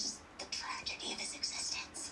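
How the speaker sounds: whispering too loudly to be secret; stage whisper meant to stay private. Real, not acted. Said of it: "you're not whispering nearly as soft as you think you are".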